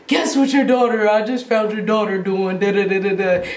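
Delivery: retold outraged phone rant; imitating yelling dad. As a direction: play dad angrily reporting on his daughter. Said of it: "my dad's yelling at me".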